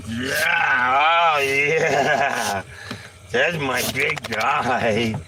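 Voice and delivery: happy shout to the dog; excited praise. Real, not acted. Praising dog during scratches.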